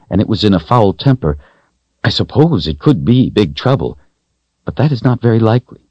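a hint of a woman's voice, animated; matter-of-fact woman character. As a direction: recount it earnestly in a lifted voice. Voices Kahlan recounting an encounter.

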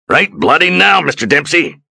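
very high, loud exasperated yell; furious shout. Acted. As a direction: scream it at the frozen man. Captain yells at frozen helmsman.

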